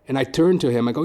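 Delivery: usual speaking voice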